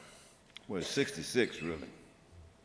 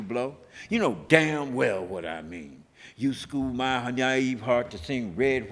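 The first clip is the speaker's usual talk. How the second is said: fiery, rhythmic poem delivered to a crowd; poem recitation. Retold or imitated. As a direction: declaim it like a street-corner protest poet. Recites his anti-war poem.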